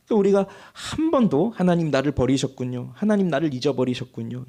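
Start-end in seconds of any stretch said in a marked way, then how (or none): 1.6-4.5 quiet resigned lament. Retold or imitated. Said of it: "이런 생각 안 했다고 한다면".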